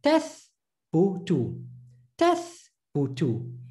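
syllables Tath, bu, tu spaced apart; sounding out words. Shown as a demonstration. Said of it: "I'm going very slow".

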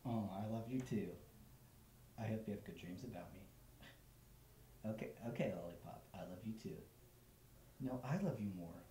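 soft, lovey-dovey phone talk; giggly late night call. Acted.

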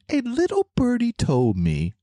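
very high squeaky cartoon voice; narwhal voice. Shown as a demonstration. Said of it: "in my narwhal voice".

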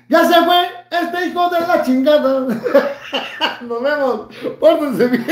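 high, loud laughing jeer; laughing gloat. Real, not acted. Streamer jeering at departed rival, laughing. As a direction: crow with laughter as they leave. Gloating after viewer leaves.

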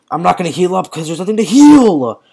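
rising to a yelled last word; protest, then shout the end; exasperated, loud finish; frustrated outburst. Real, not acted. Frustrated at useless healing.

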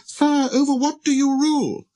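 very high, light small voice; inquiring little prince. Acted. Prince asking the king what he rules, high and curious. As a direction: ask the king with innocent curiosity.

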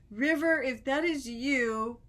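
loud, blunt mock ghost hunter; blunt, tactless. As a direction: imitate a man bluntly telling off a ghost. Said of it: "it was so blunt".

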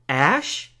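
high, halting, very slow question; weakly incredulous. A narrator's reading. Stunned boy answers the champion's offer, weakly incredulous. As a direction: draw it out weakly in disbelief. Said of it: "I said weakly".

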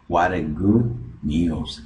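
"What a" linked, its T tapped like an R. Shown as a demonstration. Teacher demonstrating American linking, "What a" with T as R. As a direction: slowly run "What a" together as "wara". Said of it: "la convierten en una R".

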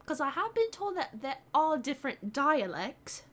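careful put-on British accent; deliberate, enunciated British accent. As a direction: speak with an amateur British accent. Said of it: "Try your British accent for one minute straight".

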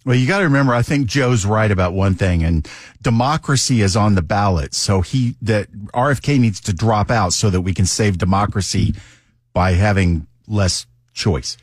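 deadpan mock agreement, understated; sarcastic. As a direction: feign earnest agreement, slowing on the last words. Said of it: "I am being sarcastic".

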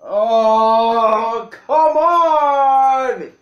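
drawn-out, rising cry of frustration; real gamer exasperation; exasperated protest. Real, not acted. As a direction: stretch it into an angry wail. Player protests the loss.

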